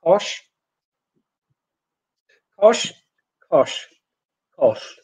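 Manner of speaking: KOSH, each one separate and clear; minimal-pair demo. Shown as a demonstration. Teacher reading out words for learners to compare, careful pronunciation demo. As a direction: say KOSH as a careful model word. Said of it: "listen to me saying these words".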